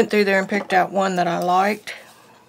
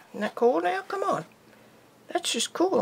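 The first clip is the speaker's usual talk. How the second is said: excited; 10 semitones higher than usual. Real, not acted. Admiring own drawing.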